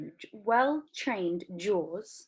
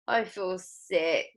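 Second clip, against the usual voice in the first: sick Violet; much slower than usual. Acted. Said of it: "said Violet".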